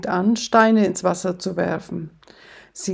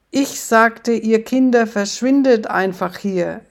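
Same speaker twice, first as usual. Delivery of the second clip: shouting; 2 semitones higher than usual. Acted. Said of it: "schreit er".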